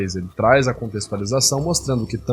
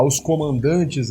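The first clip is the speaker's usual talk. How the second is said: slow, puffed-up "Os comandantes"; superior tone; 3 semitones higher, much slower than usual. Retold or imitated. Commentator mimicking the narrator's proud delivery, slow and superior. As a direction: chest out, drag it out slowly with superiority. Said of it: "ele estufa o peito, faz uma postura de superioridade, aumenta o volume vocal".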